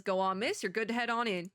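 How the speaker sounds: put-on Southern officer voice; slightly shaky attempt at a Southern accent. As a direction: wave her through in a Southern accent. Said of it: "I can do a better Southern accent".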